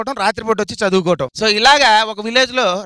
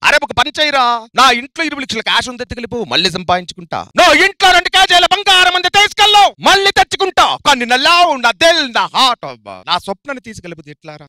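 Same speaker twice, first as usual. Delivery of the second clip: Prakash Raj villain; 2 semitones higher, 5 dB louder than usual. Acted. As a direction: rant like a swaggering villain. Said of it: "నేను మాంత్రికుని".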